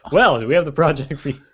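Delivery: hammed-up commercial announcer; infomercial announcer. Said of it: "talk like I'm in an infomercial".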